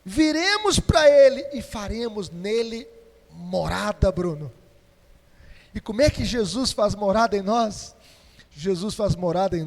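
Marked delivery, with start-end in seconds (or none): 0.1-4.1 loud, ringing preacher's declaration; proclaiming loudly. Acted. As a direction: shout the promise to the church. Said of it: "Quem me ama".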